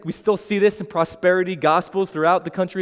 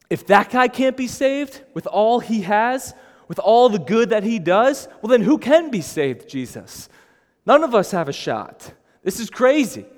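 disbelief; 5 semitones higher, 5 dB louder than usual. Retold or imitated. Voicing disciples' panicked reaction.

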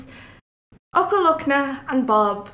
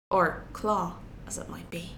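wry aside; 6 semitones lower, 9 dB quieter than usual. A narrator's reading. Wry aside after the eagle fight.

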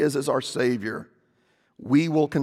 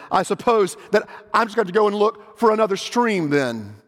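put-on worried girl; 7 semitones higher than usual. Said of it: "said Jill".

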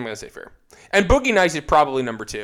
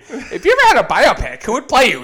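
interviewer voice; 9 semitones higher, 7 dB louder than usual. Retold or imitated. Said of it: "somebody asked him".

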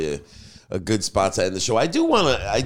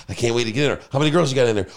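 put-on mildly hyped-up eager kid; imitating excitement; 4 semitones higher, 4 dB louder, much faster than usual. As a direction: voice a kid bursting to get in. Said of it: "getting all excited".

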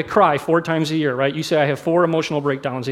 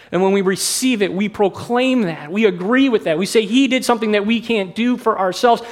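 earnest preaching; 4 semitones higher than usual. Real, not acted. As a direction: preach it with rising conviction to the congregation. Preaches on the cross.

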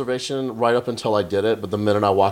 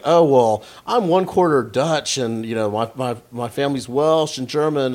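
a hint of fussy ancestry-listing, slow; mock white person; 3 semitones higher, slower than usual. Comic mocking white people listing their heritage, slowed. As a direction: play up the pedantic ancestry talk lightly. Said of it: "it's like".

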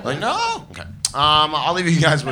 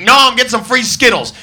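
cocky dude; 10 semitones higher, 8 dB louder than usual. Acted. Dude answering the machine.

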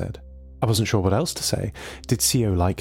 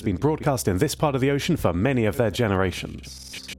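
put-on higher, eager voice of a lonely old machine; a chatty, lonely submarine AI; lightly voiced, eager C O; 3 semitones higher than usual. C O explains whales.

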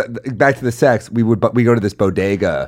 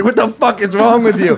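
much higher, slightly louder outraged yell; mock furious shopkeeper; 12 semitones higher, 3 dB louder than usual. Bodega clerk yelling at a prank kid, mock fury. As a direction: play the clerk who just got sprayed.

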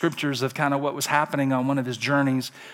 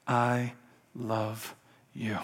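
low, soft, word by word; whispered love; 4 semitones lower, 8 dB quieter, much slower than usual. Acted. God whispering to his child, low and hushed. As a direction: drop low and hush, pausing between words. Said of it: "he's also whispering".

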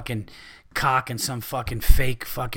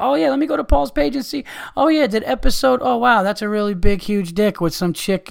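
much higher, bright cheery fan turning shocked; mock fan voice; 8 semitones higher, 4 dB louder than usual. Eager fan checking Paul's page for the podcast, high cheery voice. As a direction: play an eager fan who stumbles on porn.

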